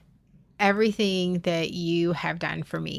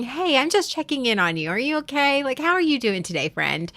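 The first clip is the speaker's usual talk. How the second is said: imitated friendly check-in; 5 semitones higher than usual.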